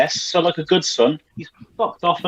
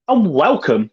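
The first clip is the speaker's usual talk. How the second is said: high sung-out host intro with a leap up on Night; mock announcer swooping up on Night; Tom Bruno impression. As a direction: stretch Night way up like a showman, then drop. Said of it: "as Tom Bruno would say".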